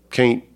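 "can't" rhyming with "paint"; Southern pronunciation. Shown as a demonstration. Author defending his preferred form, Southern pronunciation. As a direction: draw out a long A in "can't", like "cain't". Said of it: "seems to me to sound more like it ought".

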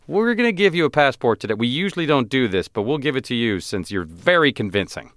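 high, fast mock official voice; consulate official. The consulate staff giving him a passport, in a high mock voice. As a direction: play the indulgent clerk, high and quick. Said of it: "They were like".

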